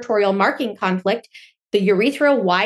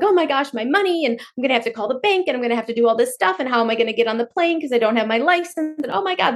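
mock panic; 2 semitones higher, faster than usual. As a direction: play the frantic search, half-acted. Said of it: "you're freaking out and you're like".

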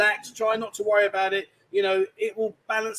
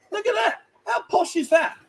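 laughing; 12 semitones higher than usual. Real, not acted. Mocking Ian's posh notebook.

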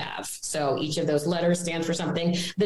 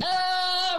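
panicked gasp; 10 semitones higher than usual. Retold or imitated. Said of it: "when your heart rate's like".

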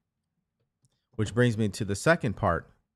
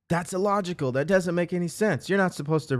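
mock skeptic; 7 semitones higher than usual. Voicing a doubter's objection.

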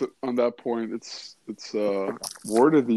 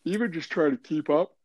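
yawning through the words; fake yawn; 3 semitones higher than usual. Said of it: "You're yawning".

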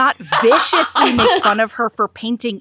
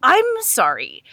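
sarcastic Nesta. Retold or imitated. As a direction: play her outraged entitlement.

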